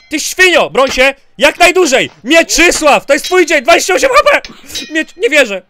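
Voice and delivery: high, loud urging; loud, worked-up gamer cries; heated battle shouting. Real, not acted. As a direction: egg your fighter on at the climax. Excited shouting at climax of fight.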